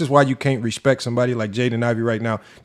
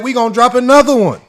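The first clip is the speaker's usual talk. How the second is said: imitating Gil, defiant; 9 semitones higher, 4 dB louder than usual. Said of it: "He said".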